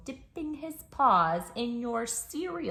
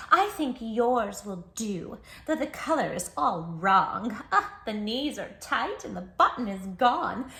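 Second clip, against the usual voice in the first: louder, slow bossy complaint; a demanding llama fussing over pants; 3 semitones higher, 6 dB louder, slower than usual. Acted. Llama bosses the child about borrowed jeans, loud and slow. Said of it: "a llama who says".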